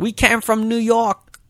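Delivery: high-pitched, slow Russian lady imitation; hammed-up Russian woman voice; mock Russian accent. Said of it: "It's very Russian".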